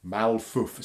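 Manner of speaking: Malfuf said softly, clear syllables mal-fuf; saying Malfuf. Shown as a demonstration. Teacher models Malfuf for children to copy. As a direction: model the word Malfuf for kids to repeat. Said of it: "Can you say Malfuf?".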